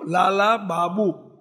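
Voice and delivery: લાલા બાબુ slowly, every syllable clear; spelled-out name. Shown as a demonstration. Preacher to the audience, slowly saying the name લાલા બાબુ. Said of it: "બાપુ નહીં હો".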